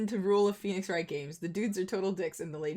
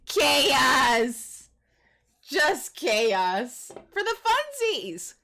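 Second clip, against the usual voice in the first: put-on Russian accent; 5 semitones higher, 5 dB louder, much slower than usual. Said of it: "speaking with a Russian accent".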